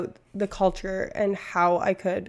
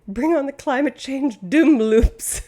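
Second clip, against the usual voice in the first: mock rallying cry; 5 semitones higher, 6 dB louder, slower than usual. Mock cheer for doom.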